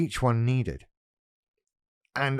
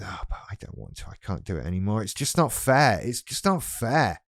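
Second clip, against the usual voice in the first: whiny vulnerable voice. Acted. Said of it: "the vulnerable comes back with".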